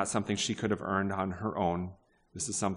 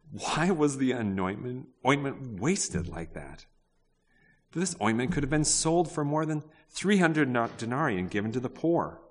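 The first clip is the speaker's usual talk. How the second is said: indignant complaint; 5 semitones higher than usual. Acted. Preacher voices the guests scolding the woman, high and indignant. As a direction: whine it like the offended guests.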